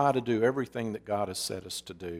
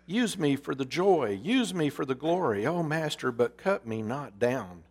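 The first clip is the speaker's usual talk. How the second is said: higher, pleading disbelief; horrified pleading; 3 semitones higher than usual. Acted. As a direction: beg the master in horror. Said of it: "A trembling of great horror shook Bamboo".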